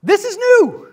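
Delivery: "new" hit high and loud; stress on new. Real, not acted. Teacher stresses to the class that the line is new. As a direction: punch "new" to show the change. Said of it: "emphasizing new creed wording".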